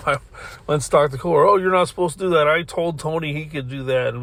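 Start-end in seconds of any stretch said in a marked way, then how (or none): 1.4-4.1 retold scolding, higher and quick at first; shitty tone. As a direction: imitate a rude telling-off. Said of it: "just a really shitty tone".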